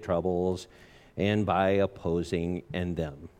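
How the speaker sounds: bored monotone reading. Retold or imitated. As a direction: read it flat and disinterested, monotone. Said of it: "disinterested, monotone voice".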